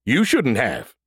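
sing-song mocking echo of her words. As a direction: parrot her back childishly. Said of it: "said Brody mockingly".

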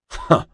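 short snorted "huh"; curt, scornful huff. A narrator's reading. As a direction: snort it out dismissively. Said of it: "Mariana snorted".

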